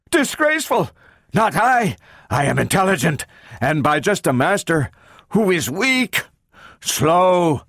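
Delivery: high, broken bursts of robot speech; agitated, boastful robot voice; robot speaking in spurts. A narrator's reading. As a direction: jerk out each phrase, pitch jumping. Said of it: "The words came in spurts".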